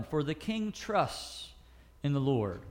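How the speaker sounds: slow, deliberate Bible reading; solemn slow reading of the psalm; scripture reading. Acted. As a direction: read the verse slowly and reverently.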